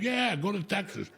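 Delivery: mock the agent while cracking up; laughing mock agent.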